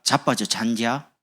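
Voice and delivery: slow, scolding Jeolla to a sleepy son; 늦잠 잔 아들을 혼내는 전라도 말투; Jeolla dialect. Shown as a demonstration. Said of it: "늦잠 잔 아들에게".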